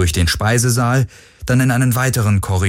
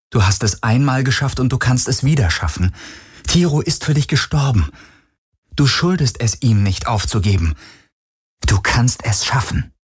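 insistent, slightly raised inner voice; urging herself on; 4 semitones higher than usual. Acted. Heroine to herself while fleeing, urgent self-encouragement. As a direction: push yourself not to give up.

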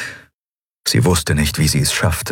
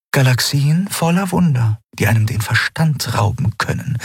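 ancient alien voice; 8 semitones higher than usual. A narrator's reading. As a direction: recall endless wonders, measured and grave.

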